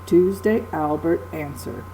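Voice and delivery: strong-weak beat on Tuesday, Albert, answer; Tuesday, Albert, answer as a falling trochaic list, first syllables accented; stress on first syllable. Shown as a demonstration. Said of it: "It's a little slower sounding".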